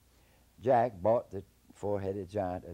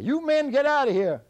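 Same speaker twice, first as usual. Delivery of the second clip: very high, loud fast shout; high shouted warning; hollering; 15 dB louder than usual. Acted. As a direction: bluff off the army. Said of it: "Jack kept hollering out".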